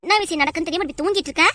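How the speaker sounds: mildly heated nagging; exasperated scolding. Acted. Wife scolding sleeping husband awake. (தூங்குறவரை எரிச்சலா திட்டுதல்)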